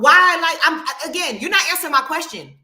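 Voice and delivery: rising frustration, loud bursts; angry. Real, not acted. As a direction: snap back, demanding an answer. Heated argument with the host.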